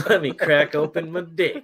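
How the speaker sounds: shallow breathing after singing; breathless, gasping lightly between words. Real, not acted. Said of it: "I'm out of breath from singing".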